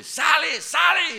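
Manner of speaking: high commanding shout at the demon. Retold or imitated. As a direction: yell it to cast the demon out.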